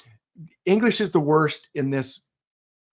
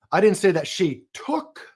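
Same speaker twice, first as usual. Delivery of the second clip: took rising high; stress on took; 6 semitones higher than usual. Shown as a demonstration. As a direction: lift the word took. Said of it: "emphasize a different word".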